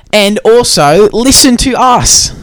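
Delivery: high, bright promo pitch; sing-song plug for the podcast. Pretend.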